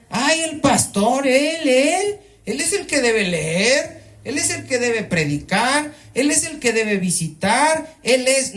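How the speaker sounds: high mocking whine about the pastor. Pastor mocks members who leave everything to him, whining high. Mocking lazy churchgoers' complaint.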